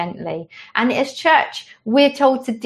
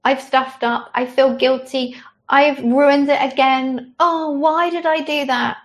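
guilty self-reproach; 5 semitones higher than usual. Pretend. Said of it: "So when we're feeling".

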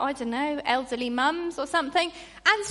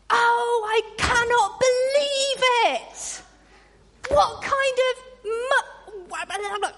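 high, loud, hammed-up whining complaint; a hammed-up churchgoer grumbling about a car crash; mock grumbling rant; 7 semitones higher, 4 dB louder, slower than usual. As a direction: play the hard-done-by moaner. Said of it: "does that sound familiar?".

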